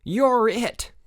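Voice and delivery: high, triumphant game shout; bellow. A narrator's reading. Chip slapping Pierre on the back, bellowing. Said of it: "bellowed Chip".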